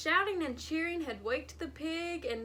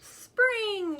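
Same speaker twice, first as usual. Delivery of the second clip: high, loud joyful yell; 9 semitones higher, 9 dB louder than usual. A narrator's reading. Chipmunk yelling in joy at the news. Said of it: "yelled the chipmunk".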